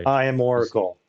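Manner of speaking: boxed-in closet echo; talking from a small closet. Real, not acted. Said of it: "You sound like you're in a closet".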